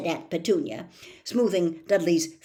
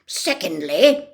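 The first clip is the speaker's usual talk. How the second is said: drawn out, louder; slow stern emphasis; 9 dB louder, slower than usual. A narrator's reading. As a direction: lay down the law slowly. Vernon laying down rules.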